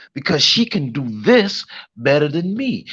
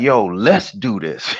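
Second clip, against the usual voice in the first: easy team call; 5 semitones lower, slower than usual. Retold or imitated. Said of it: "I'd be like".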